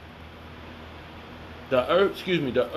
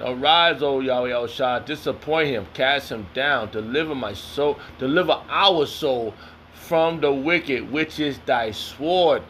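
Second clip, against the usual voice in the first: slow solemn reading of the verse; scripture reading; 3 semitones lower than usual. Acted. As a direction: read it slowly like a prayer. Reads scripture aloud.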